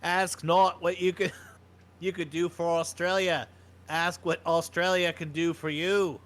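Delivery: slow Kennedy speech with a light Australian accent, laughing through; lightly Australian Kennedy orator; Australian JFK impression. Shown as a demonstration. Host hamming up JFK as an Australian, slow and lightly accented. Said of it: "JFK sounded like if he was Australian".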